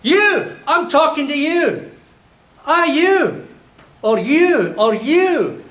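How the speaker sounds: shouted high and loud, aggressive; loud aggressive Glasgow shout; Glasgow lad yell. Shown as a demonstration. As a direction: bellow it like a hard Glasgow lad picking a fight. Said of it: "Hold your ears, 'cause this is it".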